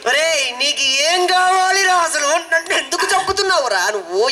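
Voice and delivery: fed up with the silent friend; exasperated plea. Acted. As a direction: plead through gritted frustration. Exasperated pleading.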